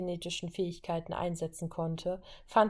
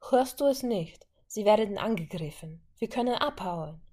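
urgent plea; 3 semitones higher, 3 dB louder than usual. Acted. Wanda urges escape.

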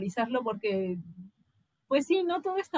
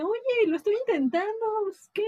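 mock pleading learner; 7 semitones higher than usual. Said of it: "es así de".

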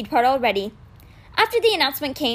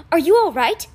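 calling out; 5 semitones higher, 6 dB louder than usual. A narrator's reading. Running up, calling out.

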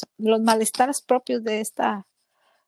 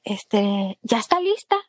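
nurse calling her. Retold or imitated. Nurse calls her for test.

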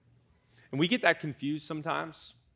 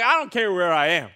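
louder, higher, urgent and fast; an apostle bursting to share, louder and higher; eager Philip; 5 semitones higher, 5 dB louder than usual. Retold or imitated. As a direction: burst out like a man who can't keep the news in. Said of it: "Philip's like".

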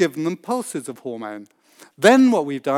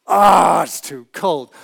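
mock yelp; 7 dB louder, slower than usual. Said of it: "to being".

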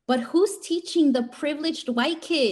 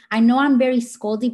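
loud sharp voice; 8 dB louder than usual. Real, not acted. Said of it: "So this is my teacher voice".

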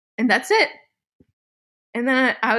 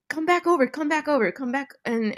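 higher-pitched, repeated urging; retold urgent plea; 6 semitones higher than usual. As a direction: imitate someone urgently calling her back. Husband urging her on phone.

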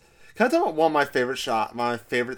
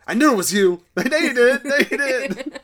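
laughing; 8 semitones higher, 6 dB louder than usual. Retold or imitated. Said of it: "He's like".

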